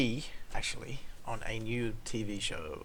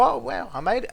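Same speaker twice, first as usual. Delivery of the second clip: much higher, louder relieved exclaim; relieved cheer; 11 semitones higher, 7 dB louder than usual. Retold or imitated. Driver cheering he cleared the roundabout, excited. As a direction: celebrate getting through.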